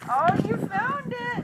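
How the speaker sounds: excited. Real, not acted. Excited praise to toddler.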